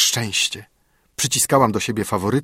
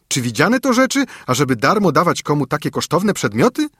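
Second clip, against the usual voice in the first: much higher, louder harsh accusation; nanny rudely confronting the mother; loud rude servant accusing; brutal scolding; 6 semitones higher, 7 dB louder than usual. Acted.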